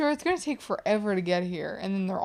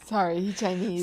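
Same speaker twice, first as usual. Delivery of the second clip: mock Japanese accent. Cohost echoes the accent line.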